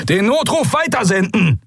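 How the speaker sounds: admiral's high, strained shout; bellowed order. A narrator's reading. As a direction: yell the command over the din of battle. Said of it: "brüllte der Admiral über die Kakophonie".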